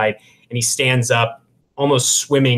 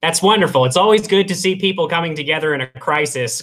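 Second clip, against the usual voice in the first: Corin's voice; 5 semitones higher than usual. Acted. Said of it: "Corin says".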